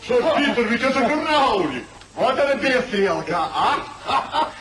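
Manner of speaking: words bubbling through laughter; can't hold back the laugh. Acted. Friend laughing as he greets Sir Peter.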